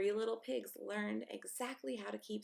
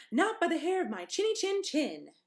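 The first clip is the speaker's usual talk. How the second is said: higher, louder defiant pig; little pig voice; 4 semitones higher, 6 dB louder than usual. A narrator's reading. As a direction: refuse him boldly. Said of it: "said the second little pig".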